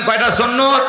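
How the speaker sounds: shouted out to the crowd, laughing. Shown as a demonstration. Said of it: "আরো জোরে বলেন".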